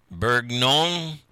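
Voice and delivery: halting try at a French accent; careful, drawn-out amateur French; attempted French pronunciation. Shown as a demonstration. Host trying the French wine name, tentative French accent. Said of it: "I'll try it".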